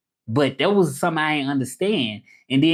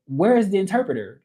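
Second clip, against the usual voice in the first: higher-pitched, puzzled questioning; confused caller; 5 semitones higher than usual. Retold or imitated. Baffled caller asking for the interpreter, confused. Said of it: "they be so confused".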